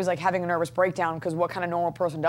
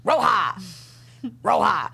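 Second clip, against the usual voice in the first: whisper; slower than usual. Pretend. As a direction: breathe the word, no voice. Echoes the whispered name.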